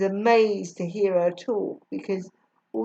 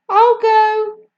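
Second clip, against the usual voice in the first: Julia; 12 semitones higher, 10 dB louder than usual. A narrator's reading. Julia offers.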